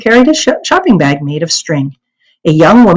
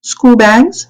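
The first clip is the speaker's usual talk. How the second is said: truthful answer; 6 semitones higher than usual. Acted. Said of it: "she answered truthfully".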